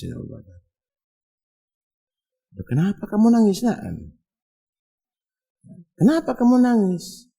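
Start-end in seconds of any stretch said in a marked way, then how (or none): 2.7-7.3 high, louder worried question; gentle concerned asking. Acted. Abu Bakar asking the weeping blind man, high and concerned. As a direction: ask the crying man why he weeps.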